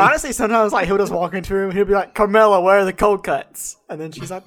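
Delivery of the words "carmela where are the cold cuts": lightly voiced mob husband calling out; slow, half-committed husband's demand; a hint of a TV mobster; rough Tony Soprano impression. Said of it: "I can't do any impressions".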